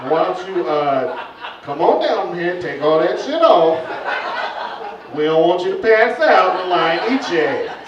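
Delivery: lightly voiced villagers shouting up; mock locals calling up. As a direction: call up the tree laughing. Imagined villagers calling up the tree.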